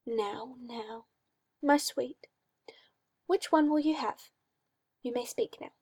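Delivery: a hint of a creepy, cooing master; mildly sinister coaxing; lightly voiced oily magister. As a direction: purr it like a condescending owner.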